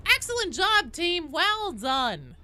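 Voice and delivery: loud, high team congratulations; hearty cheer. Real, not acted. Streamer praising the team after a game, hearty cheer.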